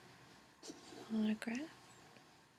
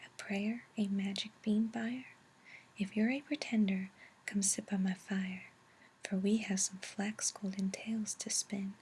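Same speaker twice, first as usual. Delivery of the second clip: whispered verse, a little more projected; whispered poem reading; 4 dB louder than usual. A narrator's reading. Reader inviting dreamers into the book, whispered poem recital.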